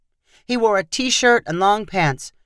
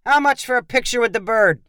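barked question; 5 semitones higher than usual. A narrator's reading. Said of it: "Tony barked at one of the vendors".

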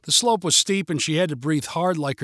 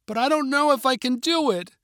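scared; 9 semitones higher than usual. A narrator's reading. Scared girl pleads with father.

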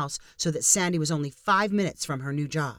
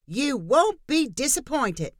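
calling out; 8 semitones higher, slower than usual. Acted. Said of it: "Diane called out".

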